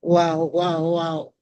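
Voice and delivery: hoarse, worn-out voice; lost voice. Real, not acted. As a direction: speak with a tired, lost voice. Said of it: "I've lost my voice".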